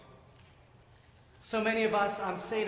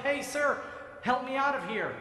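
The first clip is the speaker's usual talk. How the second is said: yelling up; 5 semitones higher than usual. Acted. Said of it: "he yells up".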